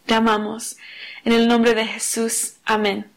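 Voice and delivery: prayer. Real, not acted. Leads a prayer. (oración sincera y suave)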